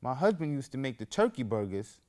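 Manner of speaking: a hint of a talkative cashier; lightly voiced cashier. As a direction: play the cashier sharing freely. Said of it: "She said".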